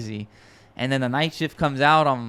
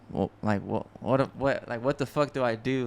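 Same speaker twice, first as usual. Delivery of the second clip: retold shock; 6 dB quieter than usual. Sitting there after the call, mildly acted stunned shock. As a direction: stammer softly, reenacting being lost for words. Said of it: "I was just, like, in shock".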